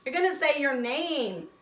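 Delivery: a hint of a chummy cartoon letter; voicing the letter E. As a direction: speak as the E nudging its buddy. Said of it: "that E at the end tells that A".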